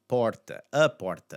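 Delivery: "porta" with open aw, "PAWR-ta". Shown as a demonstration. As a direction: model "a porta" with stressed open O. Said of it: "Again, the aw sound".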